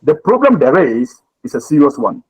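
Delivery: there is stressed, pause before is a serious one. Shown as a demonstration. Teacher showing the stress on there is. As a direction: lean on there is. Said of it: "You must stress on the there is".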